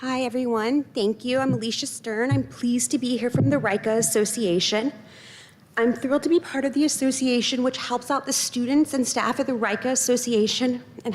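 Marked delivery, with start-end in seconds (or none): 2.3-11.1 breathless from walking on crutches; winded, catching air between phrases; out of breath. Real, not acted. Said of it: "Sorry, I'm out of breath from crutching".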